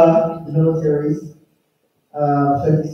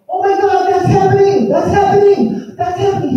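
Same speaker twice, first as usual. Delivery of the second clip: much higher, thrilled shouts of discovery; imitating an elder overcome with excitement; excited exclamation; 4 dB louder than usual. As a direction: repeat it higher each time like you can't believe it. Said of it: "He got so excited".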